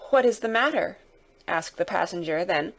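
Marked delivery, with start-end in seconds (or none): 0.1-1.0 higher, slightly anxious question; a touch of quaver in the question; mildly quavering. Acted. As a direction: ask with mild unease. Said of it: "with mildly quavering speech".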